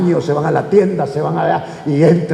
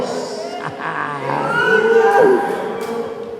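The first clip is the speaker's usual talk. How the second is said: demon's wail; 11 semitones higher than usual. Acted. Acting out the demon's outcry.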